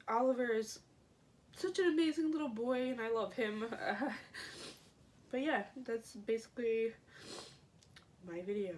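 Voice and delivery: tearful, worn-out voice; crying, worn out. Real, not acted. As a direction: talk through tears, exhausted. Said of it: "I can't stop crying once it starts".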